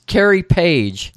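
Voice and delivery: woman stating name. Retold or imitated. Woman states her name.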